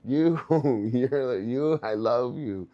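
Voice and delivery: jokey sweet-talk for a clueless parent; drawn-out mock affection, half laughing. Shown as a demonstration. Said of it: "that's how you gotta talk to parents".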